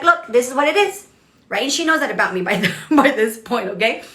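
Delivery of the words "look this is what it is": blunt, matter-of-fact straight talk; straight shooter. Retold or imitated. Coach telling her team member how it is, straight shooter. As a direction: say it straight, no cushioning. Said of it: "I'm just a straight shooter".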